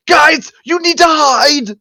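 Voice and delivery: high, urgent warning; drawn-out mock-panicked cry; panicking. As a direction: warn your friends in a high, panicky voice. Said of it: "panicking because now he's".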